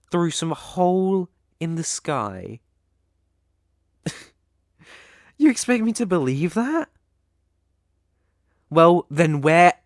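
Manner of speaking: high, loud mocking challenge; scornful disbelief. Elf guard ridiculing the human's story with loud scorn. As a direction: scoff at the absurd claim.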